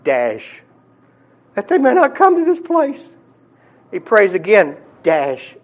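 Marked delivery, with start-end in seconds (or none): 1.6-3.0 imitated pleading prayer. Rich man praying for brothers.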